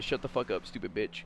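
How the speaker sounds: telling a sneezer off at a party, quietly; mock insult, softened. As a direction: say the insult under your breath. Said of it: "I've told someone to".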